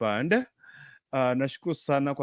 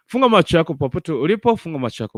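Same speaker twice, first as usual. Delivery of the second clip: prayer; 4 dB louder than usual. Real, not acted. Leads prayer, eyes closed.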